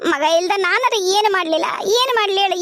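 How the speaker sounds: tearful grandmother, voice catching; crying. Acted. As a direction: let the tears break through the words. Grandmother grieves over estranged son. (ಅಳುತ್ತಾ ಹೇಳುವ ಅಜ್ಜಿ)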